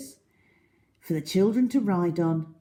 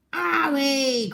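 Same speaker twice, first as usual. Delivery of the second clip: cry of pain; 7 semitones higher than usual. A narrator's reading. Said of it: "cried the crocodile".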